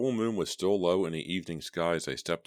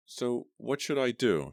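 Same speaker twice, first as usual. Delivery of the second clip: high, slow, frightened question; fearful; 8 semitones higher, 3 dB louder, slower than usual. A narrator's reading. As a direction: fear seeping through. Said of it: "unable to keep the fear from her voice".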